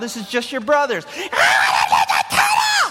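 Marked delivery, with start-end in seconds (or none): 1.0-2.9 very high, very slow, drawn-out bratty tantrum shout. Recalling wanting a Ninja Turtle as a child, retelling a childhood tantrum. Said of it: "I'd start like pitching a fit".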